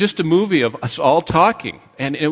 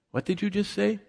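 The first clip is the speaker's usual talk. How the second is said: softly acted double take, pitched up; mock puzzled; 8 semitones higher, 5 dB quieter than usual. Distracted listener catching himself mid-conversation, mock puzzled. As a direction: stammer into a hushed, higher question.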